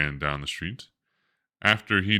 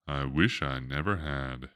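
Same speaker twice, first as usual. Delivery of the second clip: slow, much softer regretful admission; very slowly; 3 semitones lower, 5 dB quieter than usual. Acted. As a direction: say it slowly and softly, ashamed. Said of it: "said William very slowly".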